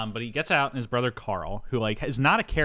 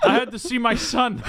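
loud, high protest through laughter; laughing mock plea; 13 semitones higher, 6 dB louder than usual. Travolta answering his angry dad, laughing mock plea. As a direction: plead it while cracking up.

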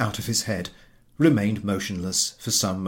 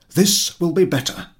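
to himself; 7 semitones higher, 7 dB louder than usual. Acted. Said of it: "said he to himself".

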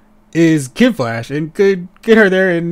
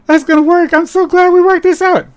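high, sweet placating voice; humoring a child; 11 semitones higher, 4 dB louder than usual. Retold or imitated. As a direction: humor him like a kid. Wife humoring husband's bad plan.

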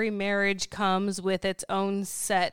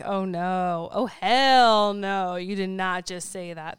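sassy outrage; 3 dB louder than usual. Retold or imitated. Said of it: "And I'm like".

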